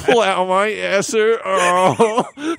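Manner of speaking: put-on high, slow, loud New York accent. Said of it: "a New York, like, Jew accent".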